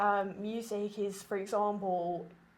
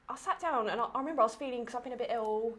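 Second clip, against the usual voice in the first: blocked nose from a cold; congested; 4 semitones higher, 4 dB louder, faster than usual. Real, not acted. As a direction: speak through a stuffy nose. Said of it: "you can probably hear in my voice, I'm a bit congested".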